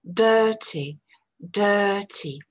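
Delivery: Dirty with a strong first syllable, weak second; accent sur la première syllabe. Shown as a demonstration. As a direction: lean on the long first vowel of Dirty, let -ty drop. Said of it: "une première syllabe forte". (Dirty, première syllabe forte, seconde faible)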